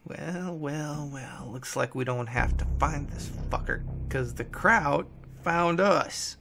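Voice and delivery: drawn-out, gloating taunt; mocking gloat. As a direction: savour the captive's bad luck. Bennett gloats over the captured man.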